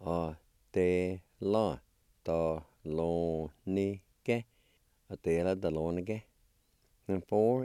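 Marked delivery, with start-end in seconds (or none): 0.0-4.4 both parts in slow separate syllables; teacher's careful word model. Shown as a demonstration. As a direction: sound out "a, te, la, da, lo, ni, ke" with pauses. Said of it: "And together".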